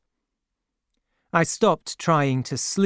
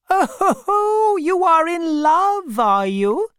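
teasing laugh; 14 semitones higher, 5 dB louder than usual. A narrator's reading. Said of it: "she said with a laugh".

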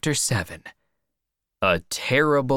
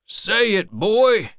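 raised, high, insistent voice; urging old man; 11 semitones higher, 6 dB louder than usual. A narrator's reading. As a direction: press the boy to speak up. Old man urges boy to speak.

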